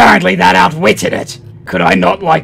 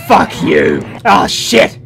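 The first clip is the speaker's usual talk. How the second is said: shouting; 5 semitones higher, slower than usual. Real, not acted. Yelling at game enemy.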